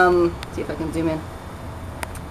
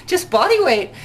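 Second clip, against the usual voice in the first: "Just body weight" said high and amused, stress on "body"; laughing insistence; 11 semitones higher, 3 dB louder than usual. Retold or imitated. Answering the Twitter question with amused insistence. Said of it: "Uh, just body weight".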